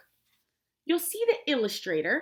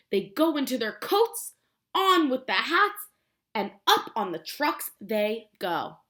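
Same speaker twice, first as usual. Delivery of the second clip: lively storybook reading, a bit louder; reading to children; 4 dB louder than usual. Acted. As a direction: read it out to little kids with energy. Reads the book aloud.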